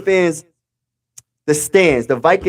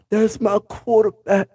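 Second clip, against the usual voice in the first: slow, savoured, proud "That's my quarterback."; proud claim, drawn out; 4 semitones higher, 3 dB quieter than usual. Real, not acted. Streamer claiming his quarterback as his own, proud and slow. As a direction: lean back and savour every word. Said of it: "That's how I feel right now".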